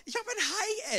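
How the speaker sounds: high, loud excited call; calling out excitedly. Retold or imitated. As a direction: shout across the water to Pedro. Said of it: "hab gerufen".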